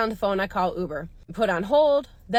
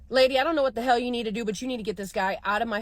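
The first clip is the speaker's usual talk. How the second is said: frustrated; 3 semitones higher, faster than usual. Retold or imitated. Driver demanding Uber get the rider out, frustrated. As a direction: retell a fed-up demand with some force. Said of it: "I start to get frustrated".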